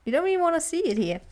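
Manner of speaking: high, prissy no-no; mock refusal. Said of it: "It's like".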